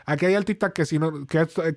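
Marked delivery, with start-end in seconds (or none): none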